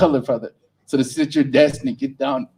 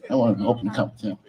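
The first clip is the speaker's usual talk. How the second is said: mock liberal customer; 6 semitones lower, 4 dB louder than usual. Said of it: "the happy liberal white folks".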